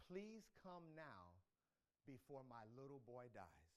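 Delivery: mild desperate plea; pleading father. Acted. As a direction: beg for the little boy, slowly and softly. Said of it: "The official pleaded".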